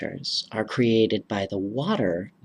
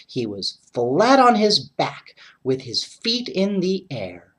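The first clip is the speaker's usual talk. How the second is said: bright, lively read-aloud voice; story narration; 2 semitones higher than usual. A narrator's reading. Reading a winter story to young listeners, lively narration. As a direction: tell it like bedtime reading for kids.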